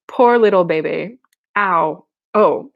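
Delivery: babyish mock sympathy; mocking baby talk. A narrator's reading. Marianne to hurt Carmen, babyish mocking. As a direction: coo mockingly over a tiny hurt. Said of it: "mocked in a funny, babyish lisp".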